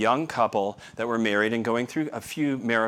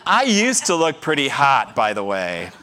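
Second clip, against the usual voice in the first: laughing; 5 dB louder than usual. Real, not acted. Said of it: "self-deprecating joke".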